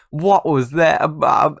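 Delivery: high, loud stammering disbelief; amazed outburst. Real, not acted. Gamer amazed by a trick pass, amazed outburst. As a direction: stammer loudly in astonishment.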